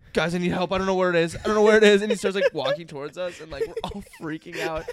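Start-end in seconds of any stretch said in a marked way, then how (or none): 0.1-2.0 higher, louder hammed-up worried plea; mock concerned plea. Brother pretending he lost something, begging the guys, mock worried. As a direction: sell the fake alarm, pleading. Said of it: "in the most concerned voice goes".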